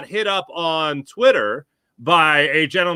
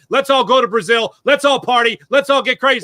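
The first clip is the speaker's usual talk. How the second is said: each cheer a bit louder and higher; building hype; 5 semitones higher, 4 dB louder than usual. Real, not acted. Guest hyping the Brazil game, building excitement. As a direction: pump up the party.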